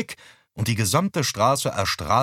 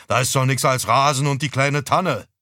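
louder, higher scoffing outburst; getting loud; 4 semitones higher, 5 dB louder than usual. Acted. Father loudly scoffs that there is only lawn and a fir. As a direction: raise the voice, scornful. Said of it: "Vater wurde laut".

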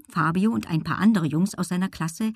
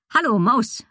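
higher, lightly called greeting; calling out; 5 semitones higher than usual. A narrator's reading. Woman greets the girl, lightly calling out. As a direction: call a cheery hello across a yard. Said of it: "rief sie".

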